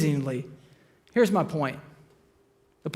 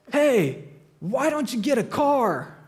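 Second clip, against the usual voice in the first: raised, drawn-out heckle from a porch; mock yell; 6 semitones higher, slower than usual. Porch drinker heckling joggers, mock yell. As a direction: toss a jeering shout at passing runners. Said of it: "one of them yells".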